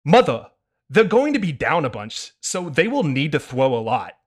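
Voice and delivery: put-on nagging killjoy kid scolding mother; Kyle Gordon no fun kid voice. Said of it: "TikTok famous person Kyle Gordon's, uh, no fun kid voice".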